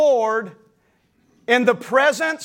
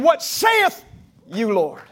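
bold declaration; 2 semitones lower, much slower than usual. Shown as a demonstration. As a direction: preach the response out boldly. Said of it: "Even when I don't understand".

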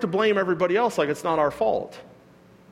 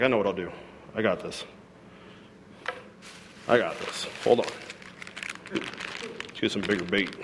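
scheming Satan; 7 semitones lower, 7 dB quieter than usual. Retold or imitated. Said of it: "He's like".

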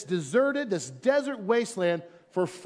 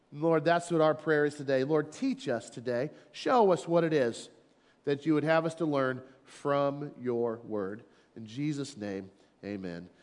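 prayer voice; 3 semitones lower than usual. Acted. Pastor leads prayer.

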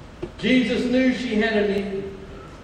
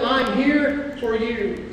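tender reassurance; much slower than usual. Retold or imitated. Parent comforting child, slow.

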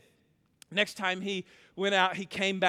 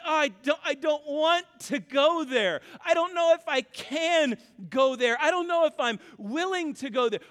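higher, louder whiny reluctant voice; mock reluctance; 6 semitones higher, 4 dB louder than usual. Preacher imitating a congregant afraid to talk about suffering, higher and louder. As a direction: imitate someone dreading the topic.

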